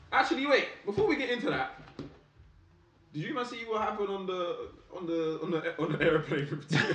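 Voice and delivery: high, sudden and eager; excited. Real, not acted. Sudden new topic.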